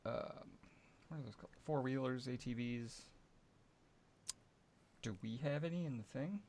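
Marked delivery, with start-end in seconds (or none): none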